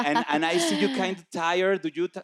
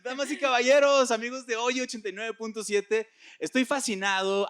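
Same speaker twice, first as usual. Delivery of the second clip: lucha libre announcer; 7 semitones higher than usual. Acted. Radio host opens with fanfare.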